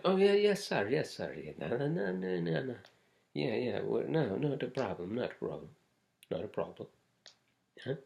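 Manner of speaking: mock Indian accent, pitch leaping up and down on the yeses and nos; bouncy, exaggerated Indian accent, lightly done; Indian accent impression. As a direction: play the eager restaurant guy in a hammed-up Indian accent. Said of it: "Am I doing the Indian accent good?".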